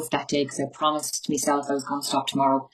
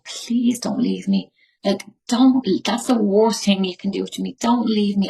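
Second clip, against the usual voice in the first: reliving a desperate plea to her husband, voice catching; begging him not to go, close to tears; emotional retold begging, partly whispered; desperate pleading; 3 semitones higher than usual. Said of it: "I'm getting emotional even thinking about it".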